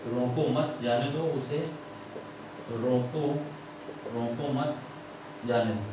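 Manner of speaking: broken into bits with repeats and pauses; slow dictation. Shown as a demonstration. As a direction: dictate piece by piece. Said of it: "पूरा वाक्य लिख लो". (रुक-रुककर, दोहराते हुए लिखवाना)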